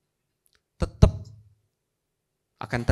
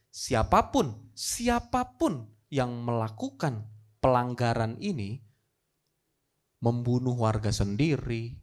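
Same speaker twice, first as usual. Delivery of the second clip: low, slow, measured proclamation; grave and deliberate, with long pauses; solemn royal decree; 3 semitones lower, 3 dB quieter, slower than usual. Acted. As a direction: pronounce the law slowly, weighing each phrase. King solemnly decrees the death law.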